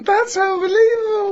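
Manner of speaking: high laughing shout of disbelief. Real, not acted. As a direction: cry it out through laughter. Reacting to friend's story.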